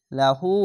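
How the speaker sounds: "হু" in লাহু held for one alif; drawn-out vowel. Shown as a demonstration. Teacher showing the inverted-pesh lengthening, final vowel drawn out. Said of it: "উল্টা পেশে এক আলিফ টেনে পড়বেন".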